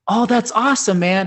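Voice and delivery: high, loud mellow "awesome, man"; laid-back hippie approval; imitating Duncan's easygoing reply; stoner voice. Duncan answers from window.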